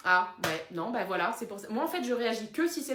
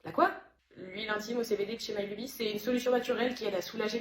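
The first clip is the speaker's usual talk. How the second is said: soft sales pitch; 2 semitones lower, 4 dB quieter than usual. Acted.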